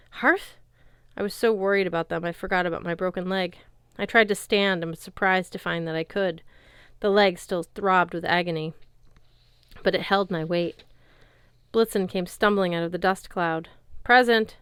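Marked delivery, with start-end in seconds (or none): 0.1-0.6 calling out. A narrator's reading. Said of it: "I called". 14.0-14.6 squeaked. A narrator's reading. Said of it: "he squeaked".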